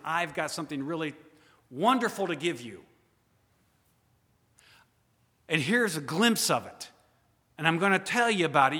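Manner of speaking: fast, breathless sales pitch; excited promiser. Acted. Preacher voices someone promising a gift, fast and eager.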